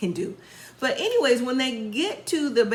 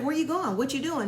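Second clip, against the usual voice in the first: imitated nosy interrogation, pitched higher; questioning; 5 semitones higher than usual. Amber questioning Eric as he is leaving, mock interrogation. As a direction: fire off questions in a raised pitch. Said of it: "She's questioning him like Puppy was".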